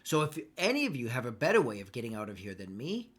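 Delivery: contemptuous captive berating the party; scornful captive. Acted. DM plays the captive berating the whole party. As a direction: lash them with contempt.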